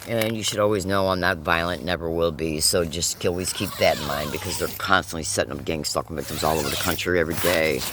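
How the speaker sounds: talking around a lit cigarette; words round a cigarette between lips; cigarette in mouth. Real, not acted. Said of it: "let me light a cigarette".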